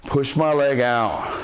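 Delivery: slow. Shown as a demonstration. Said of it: "I'm gonna slowly".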